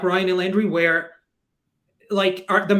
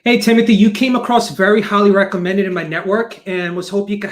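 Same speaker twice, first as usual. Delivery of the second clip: upbeat voicemail pitch; 3 dB louder than usual. Acted. Leaving an upbeat sales voicemail.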